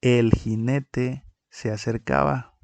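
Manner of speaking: read out as a sentence. Shown as a demonstration. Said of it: "Tenemos la siguiente frase".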